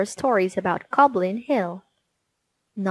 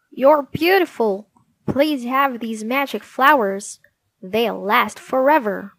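admiring goblin prince; 3 semitones higher, 3 dB louder than usual. Acted. Prince Castor admiring Jessie.

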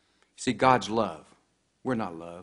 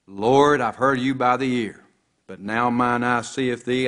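Job crying out; 2 semitones higher, 5 dB louder than usual. Acted. Preacher voices Job crying out.

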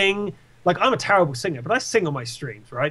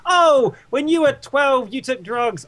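high, loud taunting heckler voice; mocking heckler; 8 semitones higher, 3 dB louder, slower than usual. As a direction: play the heckler jeering at you, high-pitched. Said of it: "someone says".

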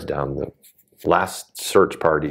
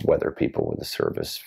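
mock official reassurance; 12 semitones lower, 5 dB quieter than usual. Quoting dismissive Forest Service officials.

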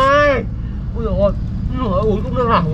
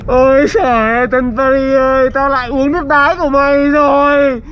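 laughing shout. Acted. Drank urine again, laughing shout.

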